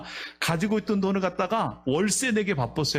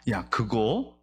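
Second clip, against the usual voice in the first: God's voice; 8 semitones lower than usual. Acted. God asks for the savings.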